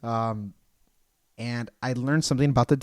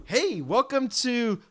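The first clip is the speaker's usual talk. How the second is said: drawn-out greeting; 9 semitones higher, much slower than usual. Retold or imitated. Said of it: "They're like".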